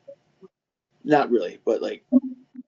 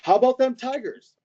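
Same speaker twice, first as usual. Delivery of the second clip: code phrase; 11 semitones higher than usual. Retold or imitated. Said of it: "my family has a code phrase for that".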